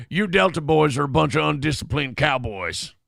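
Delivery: lightly mimicked bad Southern accent; Jason Isaacs. Quoting Jason Isaacs in Black Hawk Down, mock Southern accent. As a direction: put on an awkward Southern accent. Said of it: "This is Southern accent".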